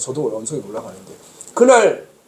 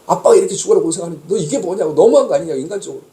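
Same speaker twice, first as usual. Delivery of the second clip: retold angry scolding; 2 semitones higher, 3 dB louder than usual. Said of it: "막 역정을 했거든요".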